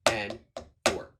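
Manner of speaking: punchy, separated count, each number on a beat. Shown as a demonstration. Drum teacher counting along while playing accents, punchy rhythmic count. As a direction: call out the accents in strict time.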